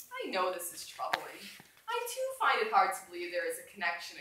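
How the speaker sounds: reading a novel aloud to the class, unhurried; lightly voiced gorilla narrator, calm and musing; story read aloud. A narrator's reading. Teacher reads novel aloud.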